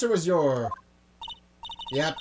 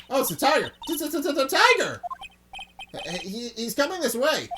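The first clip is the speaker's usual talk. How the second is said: panicked cry; 7 semitones higher than usual. Acted. Maya spotting the tiger coming, panicked stammer. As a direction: blurt it out in a panic.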